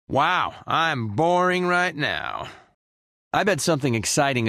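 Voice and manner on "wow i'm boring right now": slow, dragged-out boredom. Acted. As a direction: drag the words out, bored stiff. Idle, complaining of boredom.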